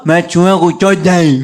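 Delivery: slow, loud, strange mangled voice; Abakadar's voice. Retold or imitated. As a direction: drag it out slowly like a dazed old man. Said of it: "वो ऐसे नहीं बोला, अबाकदर बोला".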